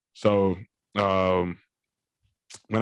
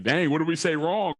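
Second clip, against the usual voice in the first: higher-pitched puzzled relatives; baffled family; 6 semitones higher than usual. Retold or imitated. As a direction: wonder aloud as the bewildered family. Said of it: "everybody's just looking at me like".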